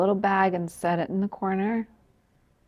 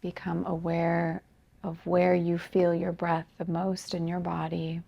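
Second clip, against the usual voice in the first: softer, unhurried meditation guidance with long pauses; guided meditation; 5 dB quieter than usual. Acted. Yoga teacher guiding students to become aware of breath, calm meditation voice. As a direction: gently lead them into noticing the breath, leaving space between phrases.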